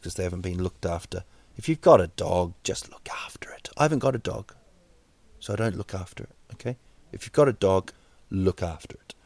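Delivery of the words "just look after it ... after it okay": sneaky unvoiced whisper; whispered aside. Real, not acted. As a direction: slip the aside in under breath. Whispered aside about own dog.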